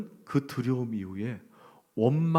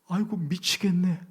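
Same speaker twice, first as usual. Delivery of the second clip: complaining voice; 5 semitones higher than usual. Pretend. Escalating mock complaints.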